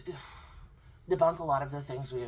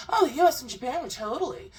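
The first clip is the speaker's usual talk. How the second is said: mock innocent guest; 4 semitones higher, 5 dB louder than usual. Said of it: "say the same thing for Japan".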